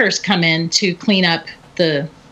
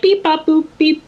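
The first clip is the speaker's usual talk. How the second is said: higher beep bop boop; playful robot noises; 8 semitones higher than usual. Retold or imitated. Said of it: "the kid is making these robot noises".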